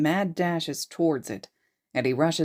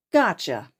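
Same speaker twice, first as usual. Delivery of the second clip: playful wink; 5 dB louder than usual. Acted. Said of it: "punctuating it with a wink".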